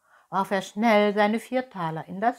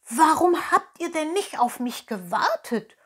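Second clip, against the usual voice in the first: higher, louder breathless question; panting; 9 semitones higher, 6 dB louder than usual. Acted. Pinocchio arrives running and asks fox and cat, panting. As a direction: gasp it out after running. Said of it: "keuchte Pinocchio".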